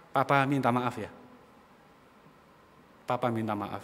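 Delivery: low, soft retold apology from a father; tender apology. Father hugs crying child, apologizing.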